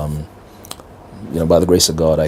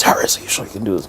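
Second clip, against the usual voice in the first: retold scream; 3 semitones higher than usual. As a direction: imitate an exasperated scream without the volume. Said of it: "Then he screams".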